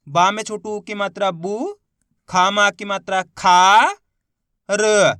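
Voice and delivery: teacher sounding out "बू", "खा", "र" one by one, each drawn out; अक्षर-दर-अक्षर उच्चारण. Shown as a demonstration. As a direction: spell it out, holding the final "बू" and "खा" long. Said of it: "एक अक्षर का उच्चारण करके". ("बू", "खा", "र" को अलग-अलग, खींचकर बोलना)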